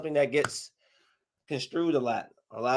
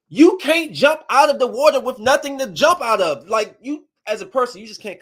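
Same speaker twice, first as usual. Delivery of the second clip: louder, higher disbelief at the stunt; incredulous rant; 9 semitones higher, 8 dB louder than usual. Real, not acted. To the viewers about the movie stunt, loud disbelief. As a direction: protest that nobody could do that.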